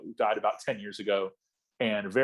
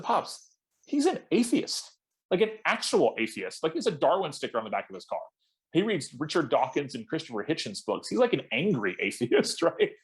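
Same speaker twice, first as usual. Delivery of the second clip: incredulous; 5 semitones higher than usual. Retold or imitated. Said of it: "I said".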